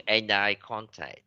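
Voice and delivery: "and eye" run together as one word in "and eye contact"; linked pronunciation. Shown as a demonstration. Teacher giving an example of linked reading, words joined up. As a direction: link the d of "and" straight into "eye". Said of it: "người ta đọc nối rất là nhiều".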